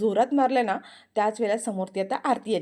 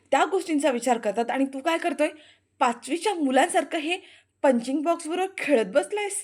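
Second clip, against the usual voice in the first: scornful lecture; 4 semitones higher, 5 dB louder than usual. Acted. Aarti lectures him scornfully.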